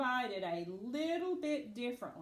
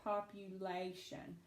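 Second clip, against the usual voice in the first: slow, soft "Population" with the "la" stressed; stress on third syllable; 3 semitones lower, 5 dB quieter than usual. Shown as a demonstration. Teacher showing where the accent falls in Population, stress on third syllable. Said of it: "Accent is right here".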